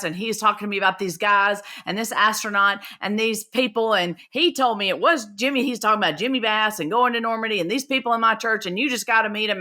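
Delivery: imitating a cousin's breathless run-on chatter; fast talking. Cousin pitching these people over the phone, talking fast. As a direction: rattle it off in one long rush. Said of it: "he's talking so fast".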